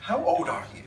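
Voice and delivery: laughing. Real, not acted. Teasing host about his age.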